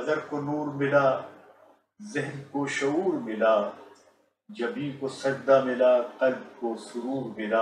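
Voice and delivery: stately nazm recitation. Shown as a demonstration. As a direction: recite each line with dignity. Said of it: "میں آپ کی خدمت میں دو قطعات".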